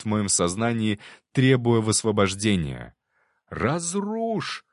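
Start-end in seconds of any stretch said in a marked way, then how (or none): 3.5-4.6 single high shouted word; shouted command. A narrator's reading. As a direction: cry it out, much higher. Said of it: "крикнул я".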